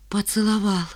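почти шёпотом, без голоса; выдохни слово тихо, как тайну; потрясённое признание. Acted. Ленка сообщает о поцелуе. (тихо, почти шёпотом)

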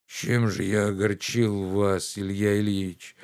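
mild near-sobbing plea; understated tearful reply; almost crying. Acted. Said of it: "почти плача сказал он".

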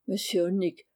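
usual speaking voice

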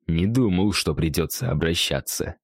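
a cavernous creature voice from deep inside; booming echoing voice. Acted. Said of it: "прозвучал гулкий голос Сорнита из недр его туши".

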